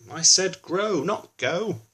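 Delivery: high, loud annoyed shout on grow; cross shout. Acted. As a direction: shout it at the runaway tomato. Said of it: "she's shouting".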